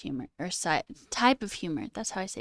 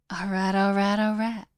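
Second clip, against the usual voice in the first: lightly put-on celebrity catchphrase; Matthew McConaughey; 5 dB louder than usual. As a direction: run the words together in a light impression. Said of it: "Hello, Matthew McConaughey".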